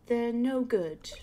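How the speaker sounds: put-on lightly done posh British old lady, slow; a hint of a proper British neighbor. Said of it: "like, a posh British voice".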